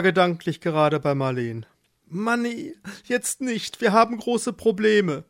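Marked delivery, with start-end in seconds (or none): 2.1-5.2 high, harried voice; stressed brush-off. Acted. Worried Eduard puts off the mole, harried. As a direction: wave the friend away anxiously.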